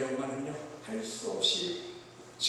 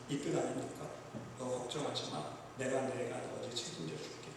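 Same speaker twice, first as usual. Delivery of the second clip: gentle reassurance. Acted. David voiced reassuring Mephibosheth.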